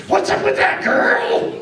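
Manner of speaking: high, sassy question; sassy complaint. Acted. Skull Max scolds Anna sassily for the box. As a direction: tease her with attitude. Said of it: "he says".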